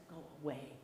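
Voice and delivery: soft grumpy brush-off; grumpy Coyote sending Rabbit off. Acted. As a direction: mutter it to get rid of him.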